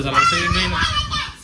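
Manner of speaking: high, slow wail over wasted work; mock lament. Real, not acted. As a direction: drag it out in mock despair. (उंच, सावकाश नाटकी हळहळ)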